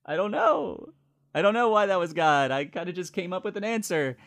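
high, sheepish, nervous voice; flustered admission. Retold or imitated. Paul sheepishly admitting to Rob he made it up. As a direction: squeak out the excuse.

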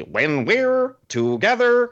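high, drawn-out strained yell; mock scream. Mimicking the hardcore trivia host reading lyrics, screamed. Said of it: "sits up there and screams them like that".

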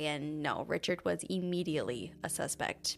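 measured, even podcast storytelling voice; true crime narration. Acted. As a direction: narrate the case calmly over the music. Continues case narration.

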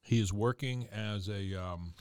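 talking while chewing; words around a bite of food; mouth full. Real, not acted. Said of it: "I'm sorry, I'm still chewing".

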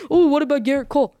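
mock objection from a Yankees fan; put-on voice of a fan challenging the pick; objecting fan. Yankees fan challenges the best-pitcher claim, mock objecting. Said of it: "You say".

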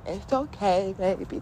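softly reassuring inner voice; gently calm an upset child; put-on tender comforting. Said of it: "my higher self was saying".

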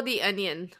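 slow, laughing shout. Real, not acted. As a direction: burst out laughing on the words. Cracking up over the onion.

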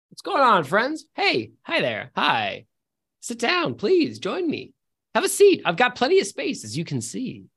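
a lightly voiced friendly host; a mild put-on voice for the friendly stranger; character voice. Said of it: "fancy schmancy character voice generator".

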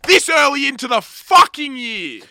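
mock outraged protest. Mock outrage at intrusive thought.

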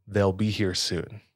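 put-on flat robotic kid voice; monotone voice. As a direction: say it with no feeling, like a robot. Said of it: "in a monotone voice, in an almost robotic cadence".

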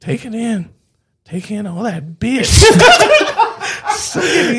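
hermit voice. Acted. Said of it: "It's like a hermit".

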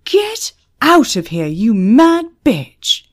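loud, high furious order; yelling. A narrator's reading. Pub manager ordering Emma out, yelling. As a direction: yell it in a red-faced fury.

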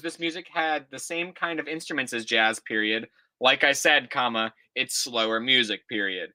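put-on reading an old essay aloud, punctuation and all; dictating. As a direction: read it out like dictation, calling each comma. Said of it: "I'm telling you the punctuation".

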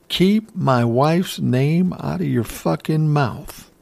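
firm, slow warning, not yet yelling; a slow, stern first warning before the yell. Retold or imitated. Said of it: "yells louder".

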